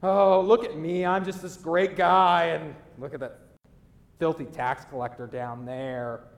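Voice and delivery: loud boastful start on "Oh, look at me", settling down after; mock a self-satisfied Pharisee; preacher hamming up a proud Pharisee; smug Pharisee. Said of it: "he's just like".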